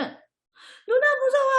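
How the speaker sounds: very high, slow whimper; mock crying. Little brother running crying to mom, mock wail. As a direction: wail it like a frightened little kid, pretend tears. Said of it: "하고 울면서".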